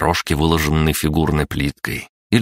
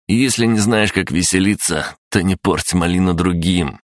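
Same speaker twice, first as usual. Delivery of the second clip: глумливо; 3 semitones higher than usual. Acted. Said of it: "глумливо ухмыльнулся".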